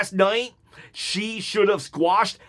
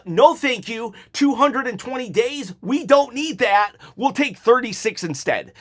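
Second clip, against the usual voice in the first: mock dismissive; 4 semitones higher than usual. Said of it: "telling John Cena".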